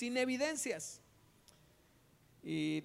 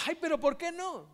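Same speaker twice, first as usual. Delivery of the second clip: whiny plea; 7 semitones higher, 5 dB louder than usual. Acted. Rejected suitor pleads.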